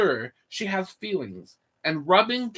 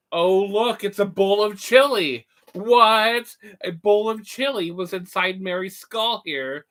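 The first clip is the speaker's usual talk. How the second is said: mad scientist; 2 semitones higher, 4 dB louder than usual. Acted. Mad scientist reveals skull contents.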